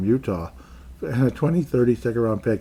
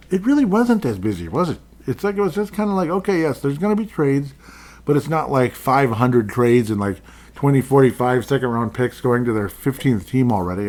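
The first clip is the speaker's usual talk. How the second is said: higher, louder, fast excited rant; 4 semitones higher, 5 dB louder than usual. Real, not acted. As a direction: get worked up about it.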